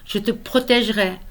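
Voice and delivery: measured verse with emphatic key words; earnest poem recitation. Acted. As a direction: recite a solemn vow, pausing between lines. Reads own poem aloud.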